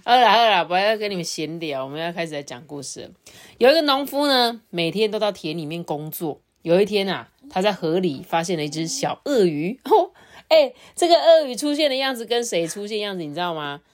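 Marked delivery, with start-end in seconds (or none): 3.6-9.8 lively storyteller with lifted openings, settling at phrase ends; children's storytelling. Acted. Adult begins the farmer and crocodile tale for a child, storytelling. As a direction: read it to a small child.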